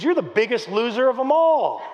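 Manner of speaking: mock angry put-down; retold furious coach. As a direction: imitate an aggravated coach berating a player. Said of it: "He's so furious with us".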